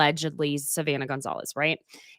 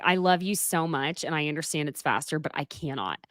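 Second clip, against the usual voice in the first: apologetic soft refusal; 3 semitones lower, 6 dB quieter than usual. Retold or imitated. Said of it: "I'm like".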